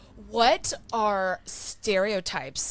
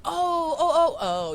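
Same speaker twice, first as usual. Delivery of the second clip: drawn-out, higher "oh" as it clicks; dawning realisation; 5 semitones higher, slower than usual. Retold or imitated. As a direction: imitate someone slowly remembering. Husband's dawning realisation, retold.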